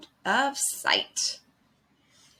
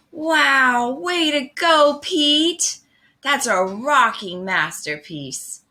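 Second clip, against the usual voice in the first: excited cheer; 6 semitones higher than usual. Acted. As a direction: cheer him on with a big wow. Friends cheering Pete's masterpiece.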